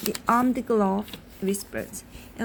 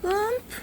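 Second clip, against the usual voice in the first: high-pitched mock groan on "Whoomp"; narrated groan, pitched well up; 10 semitones higher than usual. A narrator's reading. Boy hitting the button in a story, mock groan. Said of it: "he groaned when he".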